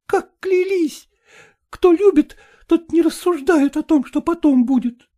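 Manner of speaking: a hint of bitter hurt over broken vows; reproachful young woman. Катерина reproaches his vows. (горький упрёк, слегка)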